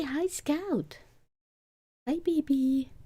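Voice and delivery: greeting the cat in a high coo. Real, not acted.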